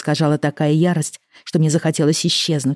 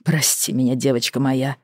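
tender apology; 3 semitones lower than usual. Acted.

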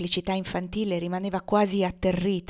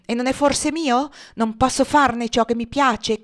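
loud, higher, slow furious rant; raging; 5 semitones higher, 7 dB louder, slower than usual. A narrator's reading. Legree raging alone about his slave Tom. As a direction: pound each word with hatred. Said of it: "esclamò Legree".

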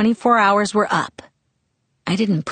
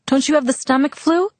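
much higher, puzzled question; confused; 8 semitones higher than usual. A narrator's reading. Girl questioning her sick friend's illness, confused. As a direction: ask it in rising confusion. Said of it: "I asked, confused".

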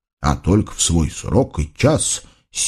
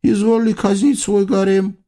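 pampered sultan; 11 semitones higher than usual. Acted. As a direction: call out like a spoiled ruler. Sultan calls his vizier.

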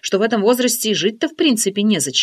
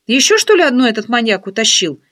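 gasping alarm; 5 dB louder than usual. Acted. Friend gasps in dismay at her own guess, voice jumping up. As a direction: catch the breath in dismay. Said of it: "ахнула".

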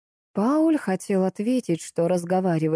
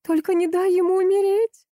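desperate plea; 13 semitones higher than usual. A narrator's reading. Wife begs him not to let their son die. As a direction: beg with everything you have. Wife pleads over dying child.

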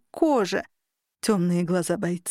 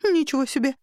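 shocked exclamation; 6 semitones higher than usual. Acted.

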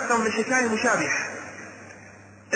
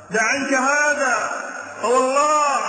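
pleading; 3 semitones higher, slower than usual. Retold or imitated. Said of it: "فقالت له".

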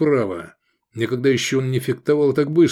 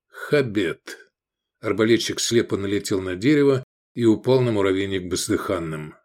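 ordinary delivery, nothing marked

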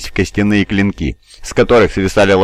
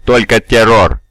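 gurgling monster glee; 2 semitones higher, 3 dB louder, slower than usual. Acted. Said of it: "оттенок вселяющего ужас веселья".

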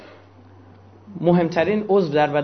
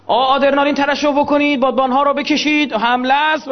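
mock battle command; 6 semitones higher than usual. Body voiced ordering attack.

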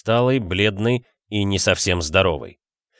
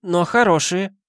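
put-on high, creaky-free old granny voice; old woman voice, higher pitch; 5 semitones higher than usual. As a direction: play the nosy old neighbour. Old woman Teofania speaks.

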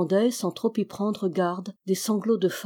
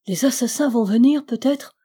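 rising, louder frightened question; fearful; 4 semitones higher, 4 dB louder than usual. Acted. Alix fears the assassins are coming, rising fearful voice. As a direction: let the dread climb into the question. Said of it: "avec effroi".

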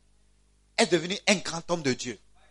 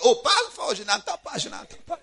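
higher-pitched mock complaint, fading away; imitated complaining listeners; 6 semitones higher than usual. Listeners telling the speaker to speak up, imitated complaint. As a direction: play listeners protesting they can't hear.

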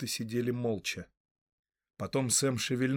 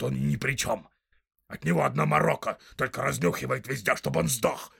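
rough orc voice; 2 semitones higher, 4 dB louder than usual. Acted. Orc tracker arguing with the big orc, loud and snarling. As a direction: bark it out like a quarrelsome orc.

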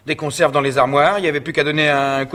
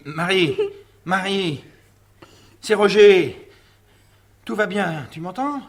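higher-pitched gentle coaxing; anxious soothing; 5 semitones higher than usual. Acted. Roger to his fainted wife Marie, anxious soothing. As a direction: coax her awake, tenderly.

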